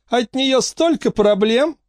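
slow, very high-pitched complaint; Angelica's complaint. A narrator's reading. Angelica complaining about Frankie, high and slow. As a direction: draw it out high. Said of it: "сказала Анжелика".

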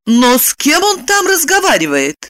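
ordinary delivery

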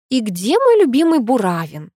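high, deliberate lovestruck sighing tone; exaggeratedly dreamy. A narrator's reading. Girl provoking Pasha about her boyfriend, deliberately dreamy. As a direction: say it as dreamily as possible. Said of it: "как можно мечтательнее проговорила".

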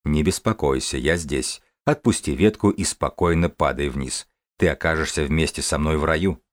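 low, soft voice from above; divine voice. Acted. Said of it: "божественный голос".

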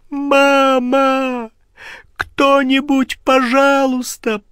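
high terrified screams for help; waking from a nightmare. Acted. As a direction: scream for help in sheer terror, slowly. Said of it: "Он проснулся в холодном поту".

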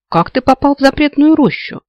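lost and caught off guard, asking; bewildered. A narrator's reading. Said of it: "растерянно спросила".

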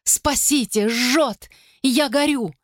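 high, rising cries of agony; woman in agony calling to the gods; anguished cry. Acted. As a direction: cry out as if burning alive. Burning woman screams for help.

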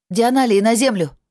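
loud, high call of relief; ringing command, the danger just over; relieved command. Acted. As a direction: call the order out, relief breaking through. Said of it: "объявила я, не скрывая облегчения в голосе".

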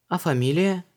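Luise asks «фамилия» in a high, even asking tone; «фамилия» asked lightly, high; plain question. A narrator's reading. Luise asks Vanessa his surname, curious.

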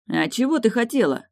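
surprised. A narrator's reading. Morton answers Tilda's complaint about his words, surprised. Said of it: "удивился Мортон".

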